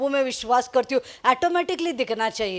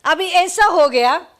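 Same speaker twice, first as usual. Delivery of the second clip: dramatic buildup; 6 semitones higher, 6 dB louder, slower than usual. Real, not acted. Dramatic turn in story.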